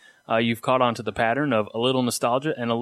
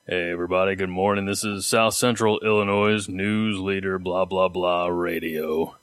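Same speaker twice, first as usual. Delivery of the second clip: morning radio announcer; 4 semitones lower than usual. Retold or imitated. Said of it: "I got called a soothing baritone".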